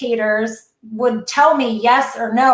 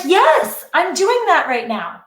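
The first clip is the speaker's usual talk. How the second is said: thrilled recognition; eager yes; 5 semitones higher than usual. Retold or imitated. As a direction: jump in with eager agreement. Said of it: "I was like".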